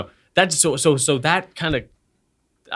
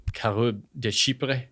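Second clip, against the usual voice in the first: Southern accent; 5 dB quieter, slower than usual. Shown as a demonstration. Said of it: "to say with a southern accent".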